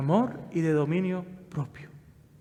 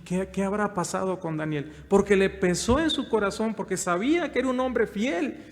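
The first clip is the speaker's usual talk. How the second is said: usual speaking voice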